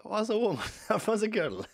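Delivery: high, loud punchline, laughing mid-line; retelling the favourite line, cracking up; Mossy Flood impression. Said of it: "It's so good".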